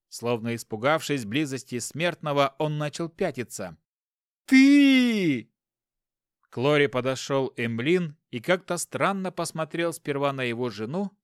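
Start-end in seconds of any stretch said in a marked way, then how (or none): 4.5-5.5 high furious yell. Acted. Husband accuses rival.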